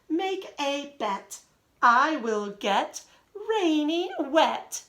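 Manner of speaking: slow, rhythmic poem reading; reading a poem to children. Acted. Teacher reading the poem Let Me to her class, slow read-aloud. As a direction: read it out slowly for little ones to follow.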